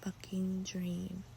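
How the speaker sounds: soft just-woke-up whisper; hushed morning whisper. Real, not acted.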